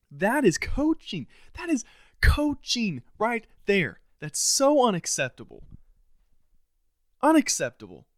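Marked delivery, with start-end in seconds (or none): 0.1-4.0 higher, slow, dripping sarcasm; slowly mock the coaches in a put-on voice; drawn-out sarcastic jab. Real, not acted. Mocking the coaches' decisions.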